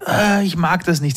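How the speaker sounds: mock child's protest, high and drawn out; whining child. Father imitates a child refusing something, high mock whine. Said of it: "wenn das Kind ein bisschen schreit und sagt".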